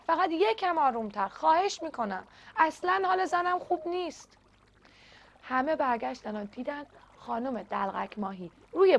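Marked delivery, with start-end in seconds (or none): 0.1-4.4 softer, begging tone on یکم آرومتر; pleading softly. A narrator's reading. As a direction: ask gently, worried for his wife.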